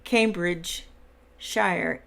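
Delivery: Cambridgeshire said slowly, split before "shire"; slow, careful Cambridgeshire with a full "shy-er"; pronunciation shown. Shown as a demonstration. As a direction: sound out Cambridgeshire in slow, separate parts. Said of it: "It's pronounced".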